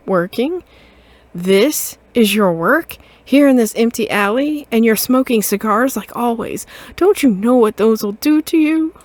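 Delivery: loud, scolding mother cat. Acted. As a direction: tell off your grown son. Mother scolding her son.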